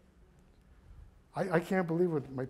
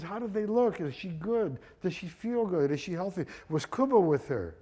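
mildly eager string of questions; excited questioning; 3 semitones higher, 3 dB louder than usual. Retold or imitated. Father asking a friend about his wife, mildly excited. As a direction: retell anxious questions with a touch of excitement. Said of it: "my father is all excited".

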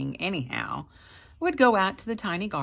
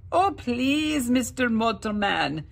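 high, louder pleading little man; pleading leprechaun; 7 semitones higher, 6 dB louder than usual. A narrator's reading. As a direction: beg for mercy. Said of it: "he pleaded".

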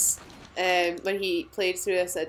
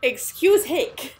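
put-on drunk with hiccups; 7 semitones higher, 5 dB louder, much slower than usual. Mock drunk hiccup joke.

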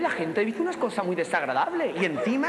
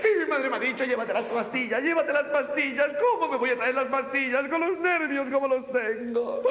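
mock tearful; 3 semitones higher than usual. Nervous performer complaining about mother's pills, tearful whining. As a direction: lament it like a hammed-up breakdown.

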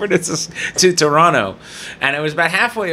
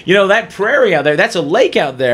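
co-pilot; 5 semitones higher, 3 dB louder than usual. Retold or imitated. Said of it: "He goes".

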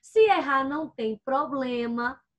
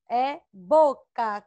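stretched, syllable by syllable; slow dictation; 4 dB louder, much slower than usual. Shown as a demonstration. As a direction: dictate it slowly for young learners. Teacher dictates the first word.

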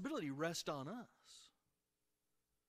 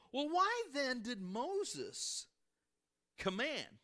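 Pharisees' challenge; 9 semitones higher, much slower than usual. Retold or imitated. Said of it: "Now pay attention".

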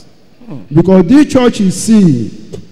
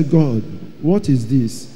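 lower, softer and slow, stunned; awed murmur; 6 semitones lower, 7 dB quieter than usual. Retold or imitated. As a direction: ask God quietly, in awe. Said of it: "I say".

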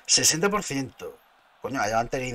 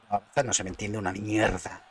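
normal talking voice

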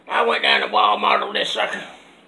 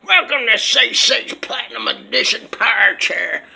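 whispered ad intro; 3 dB louder than usual. Acted. Announces his chair like an ad.

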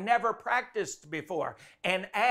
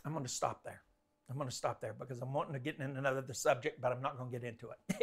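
trailing off; 8 semitones lower, 12 dB quieter, much faster than usual. Real, not acted. Wrapping up, trailing off.

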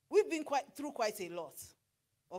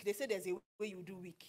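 unvoiced whisper, much softer; whispered aside; 6 semitones lower, 10 dB quieter than usual. Real, not acted. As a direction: whisper it like a confession. Aside about stove lesson.

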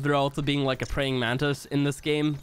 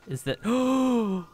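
slow, higher gasp of discovery; startled gasp; 5 semitones higher, much slower than usual. Real, not acted. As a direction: gasp as you spot something alarming. Spots the giant spider.

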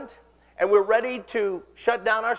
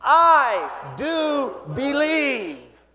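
faith declaration shout; 4 semitones higher, much slower than usual. Shown as a demonstration. Preacher leading the church in a shouted confession, very slow. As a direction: lead the crowd in a rallying cry. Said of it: "Can you say that with me today?".

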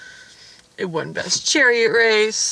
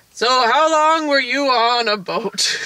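slow, measured film-star imitation; unhurried mock movie-star delivery; Morgan Freeman; 4 semitones higher, slower than usual. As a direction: draw it out in a famous actor's voice. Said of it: "Morgan Freeman shows up".

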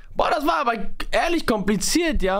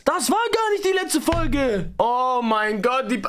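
exasperated; 4 semitones higher than usual. Real, not acted. Streamer complaining about format.

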